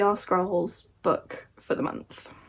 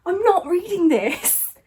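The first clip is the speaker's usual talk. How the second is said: flat refusal; 7 semitones higher, slower than usual. Real, not acted. Refuses the huge book.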